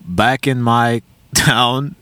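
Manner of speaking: slow quote broken by a laugh; laughing through the start of her words; retelling the doctor's words, laughing slowly. Retold or imitated. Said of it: "She said".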